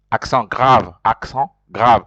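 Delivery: "accent grave" said the French way; name "accent grave" in French; French term. Shown as a demonstration. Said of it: "the one we call".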